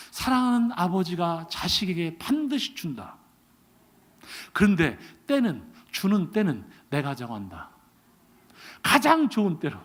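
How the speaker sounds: low, slow, quiet authority; God's voice. Retold or imitated. God explaining he decides the time, low and slow. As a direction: pronounce it gently but firmly.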